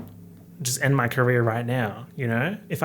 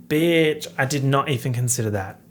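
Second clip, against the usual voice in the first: excited 1; 5 dB louder than usual. Real, not acted. Excited realisation.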